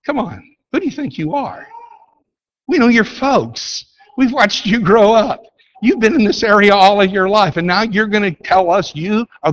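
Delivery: put-on high, incredulous scoff at a hometown boy; preacher voicing the skeptical crowd, incredulous and scoffing. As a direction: scoff like neighbors who watched him grow up. Preacher voices the doubting crowd.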